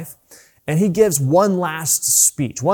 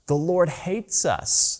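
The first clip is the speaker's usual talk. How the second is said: soft, slow, defeated whine; quiet mock despair; 4 semitones higher, 4 dB quieter, much slower than usual. Preacher voices the frightened people, quiet and defeated. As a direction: let it sink into hopeless self-pity. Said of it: "That's what they said".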